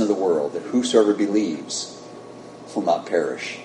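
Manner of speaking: steady, earnest prayer voice; closing prayer. Acted. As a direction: pray it over the congregation.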